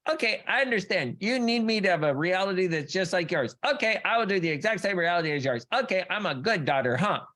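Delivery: put-on high, sweet little-girl voice to mommy; eager little girl. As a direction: play the dutiful daughter pleasing mom. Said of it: "you were like".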